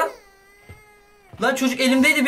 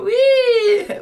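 high-pitched whoop, much higher and louder; surprised squeal; 12 semitones higher, 4 dB louder than usual. Real, not acted. Baby suddenly flies up.

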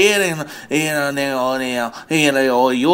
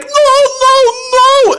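high, louder screaming no; mock scream; 6 dB louder than usual. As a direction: shriek like a kid being chased. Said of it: "you will be screaming like".

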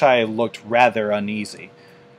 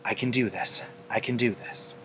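much softer, said to herself; self-encouraging murmur; 9 dB quieter than usual. A narrator's reading. Fluttershy bracing herself before the battle, softly. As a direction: quietly talk yourself into courage.

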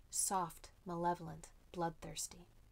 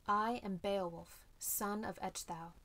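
ringing voice. Acted. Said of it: "in a voice that made the whole cave ring".

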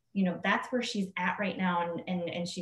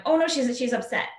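higher, louder mock panic; panicked; 4 semitones higher, 4 dB louder than usual. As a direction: act out the fear that she's upset. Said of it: "that's my paradigm going".

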